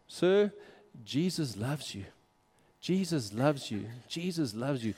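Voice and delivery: slow, soft and sincere, each line gentle; tender repeated reassurance. Retold or imitated. Telling a Muslim man at dominoes that Jesus loves him, slow and tender. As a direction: lay it on him softly like a blessing.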